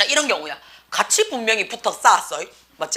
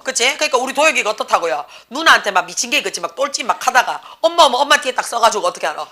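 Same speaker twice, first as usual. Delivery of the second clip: normal talking voice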